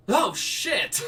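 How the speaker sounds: high, loud panicked shout; guide yelling. Acted. Guide shouts as the husband drops dead, high loud panic. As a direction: yell it in shock. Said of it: "the guide yelled".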